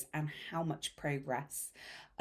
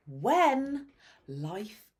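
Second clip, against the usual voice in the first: whisper; 4 dB louder, much slower than usual. Acted. Dramatic whisper on chaos.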